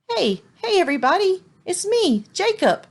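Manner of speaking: high, loud call to the crowd. Acted. Little donkey calling to the busy market crowd, loud and high. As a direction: call out to get noticed. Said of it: "he called out".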